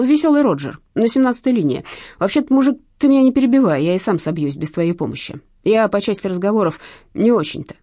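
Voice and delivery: high, loud, grumbling thief; irritable pickpocket. A narrator's reading. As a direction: tell it reluctantly, annoyed at interruptions.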